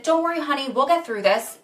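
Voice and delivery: sweet reassurance. Retold or imitated. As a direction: imitate a kind officer soothing someone. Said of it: "So sweet".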